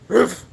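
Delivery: short imitated woof; dog bark. Streamer answers dog impression request, short imitated bark. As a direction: give one quick dog bark. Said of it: "can you do a dog impression?".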